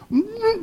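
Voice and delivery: guttural noise, held back; mock guttural groan. Shown as a demonstration. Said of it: "M-, more guttural".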